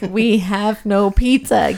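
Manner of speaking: "We have no pizza" drawn out slow, every word leaned on; over-exaggerated demon. Demon refusing pizza, slow over-exaggerated delivery. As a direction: stretch it out like a ham actor. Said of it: "over-exaggerating".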